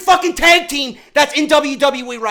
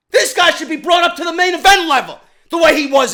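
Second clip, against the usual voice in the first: raised, angry yell at the company; angry shout; 4 semitones higher, 4 dB louder than usual. Real, not acted. Ranting fan shouting at the company in anger. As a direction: shout it out in frustration.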